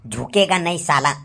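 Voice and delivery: Pushpa line. Shown as a demonstration. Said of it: "आपल्या मराठी भाषेत तसाच".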